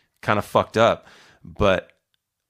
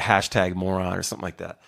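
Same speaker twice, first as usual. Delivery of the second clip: ordinary talk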